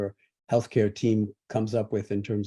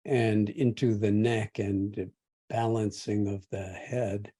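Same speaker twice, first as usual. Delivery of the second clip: measured meditation guidance with long pauses; guided meditation. Real, not acted. Teacher guides meditators through feeling the body sitting and breathing, guided meditation. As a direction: guide them gently, leaving space between phrases.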